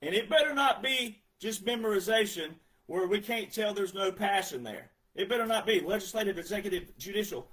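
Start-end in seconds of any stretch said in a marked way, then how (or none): 5.2-7.5 rattled off by rote. Pretend. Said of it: "Oh, let me in, let me in".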